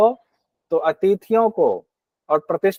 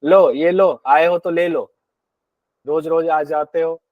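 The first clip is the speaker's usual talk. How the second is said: disrespectful host. Retold or imitated. Teacher imitating a rude host handing food to an unwelcome guest, dismissive and curt. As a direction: imitate a host who resents feeding the guest. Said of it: "बिना आदर सत्कार के अश्रद्धा से".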